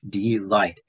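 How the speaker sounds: Delight as two distinct syllables, de and light. Shown as a demonstration. Teacher pointing out two syllables to students, Delight sounded out. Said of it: "notice there's two syllables here".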